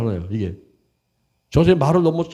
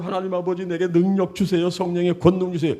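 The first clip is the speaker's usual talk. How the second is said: softly voiced, earnest mock prayer; a quiet, imitated plea to God; pleading prayer; 6 dB quieter than usual. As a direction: act out asking God for strength, softly. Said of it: "이러고 기도를 하지".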